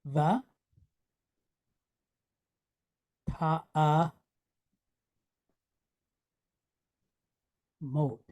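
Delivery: low, soft va, ta'a, mod with long gaps; syllable by syllable. Shown as a demonstration. Teacher letting students write the sounds, va, ta'a, mod broken up. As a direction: say va, ta'a, mod separately and quietly. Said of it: "You hear the stress?".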